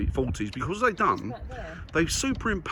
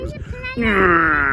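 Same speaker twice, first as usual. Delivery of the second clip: plane noise; 10 semitones higher, 10 dB louder than usual. Shown as a demonstration. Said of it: "I showed the noises they used to make".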